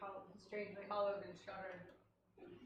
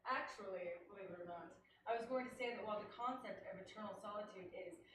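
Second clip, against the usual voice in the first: put-on English accent. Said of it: "In an English accent".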